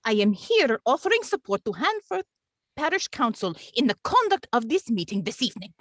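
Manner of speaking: lightly put-on Russian accent as the clerk; a deliberately bad Russian accent, only hinted at. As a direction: clerk addressing the chairman in a faint mock Russian accent. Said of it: "bad Russian accents".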